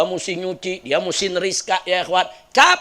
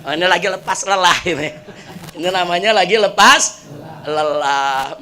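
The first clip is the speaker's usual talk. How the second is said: smiling, amused; 2 semitones lower than usual. Retold or imitated. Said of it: "dia senyum aja".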